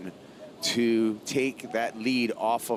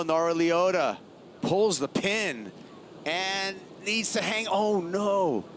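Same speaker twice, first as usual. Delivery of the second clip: excited play-by-play; 7 semitones higher, slower than usual. Real, not acted. Live call of a wave.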